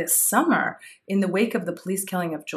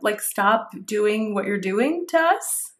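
sarcastic mock reply; 2 semitones higher than usual. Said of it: "I was like".

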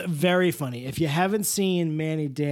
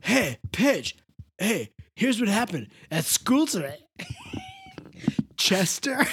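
Mister Oleander; 2 semitones higher than usual. Pretend. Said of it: "I should just do every recap episode as Mister Oleander".

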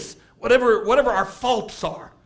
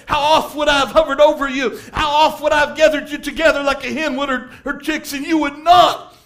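tearful plea; 3 semitones higher, 4 dB louder than usual. Retold or imitated. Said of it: "He said it with tears".

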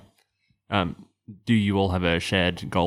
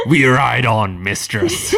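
laughing; 3 semitones higher, 5 dB louder, slower than usual. Acted. Dragon voice, laughing through it.

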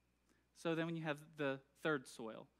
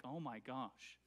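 mock complaint; 6 semitones lower, 5 dB quieter than usual. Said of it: "people would be like".

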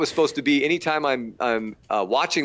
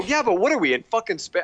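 higher, incredulous outburst; flipping out; 8 semitones higher than usual. Retold or imitated. Complaining to the director about the space set, incredulous. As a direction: throw the question up in disbelief. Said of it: "I just was flipping out".

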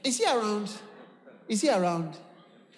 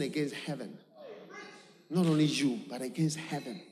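quiet confession; 7 semitones lower, 6 dB quieter than usual. Acted.

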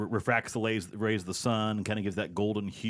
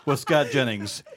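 announcer voice; 4 dB louder than usual. Acted. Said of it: "That was pretty good".

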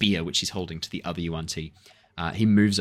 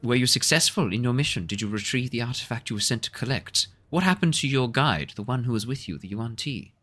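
a lightly voiced, higher probing woman; stern healer; 5 semitones higher than usual. Half-elf healer presses the waking man about his mission, firm. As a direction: question him firmly as a lightly voiced healer. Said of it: "stands back up and goes".

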